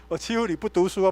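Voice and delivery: laughing through the words. Retold or imitated. Pastor teasing his ex-gangster friend, laughing. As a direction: tease him and laugh as you say it.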